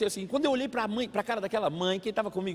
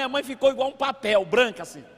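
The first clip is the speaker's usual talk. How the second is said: normal talking voice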